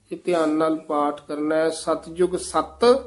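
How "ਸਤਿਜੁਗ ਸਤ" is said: ਸਤਿਜੁਗ ਸਤ with a short halt after ਸਤ; pause after ਸਤ. Shown as a demonstration. Teacher marking a pause for the student. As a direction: hold a brief stop on ਸਤ. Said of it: "ਇੱਥੇ ਠਮਕ ਹੈ".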